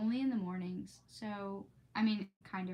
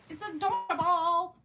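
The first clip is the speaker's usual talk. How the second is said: high, loud delighted squeal; excited squeal; 8 semitones higher, 10 dB louder than usual. Real, not acted. Telling her stream how cute the book is, delighted squeal. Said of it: "gushing over book".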